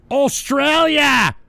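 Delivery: loud, high, drawn-out country name; mock-triumphant shout. Host revealing where the story happened, mock-triumphant shout. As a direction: shout it out slowly with mock relish.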